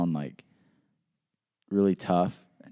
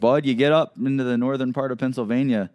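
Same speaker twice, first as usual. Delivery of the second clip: badly faked northern Pennsylvania accent, pitched up; terrible northern accent; 4 semitones higher than usual. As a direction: do a bad northern Pennsylvania local. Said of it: "This is a terrible northern accent".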